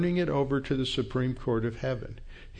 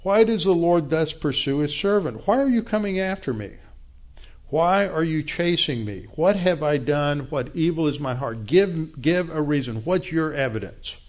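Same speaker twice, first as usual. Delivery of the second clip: indignant challenge; 4 semitones higher than usual. Acted. David challenging Saul before his army, raised and indignant. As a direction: demand a reason, raised and higher.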